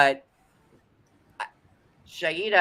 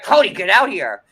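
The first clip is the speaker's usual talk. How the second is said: louder call across the house; 7 dB louder than usual. Retold or imitated. Wife calling her husband to the TV, louder. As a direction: call him into the room. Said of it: "I'm like".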